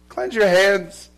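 loud, slow command. Acted. Preacher voicing Jesus, slow and loud. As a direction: call them to cleanse, slowly and loud. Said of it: "He says".

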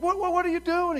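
high, loud, stammering alarm; startled stammer. Retold or imitated. Host watching a man carry off his stereo, shocked and stammering. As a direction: blurt it out in shock.

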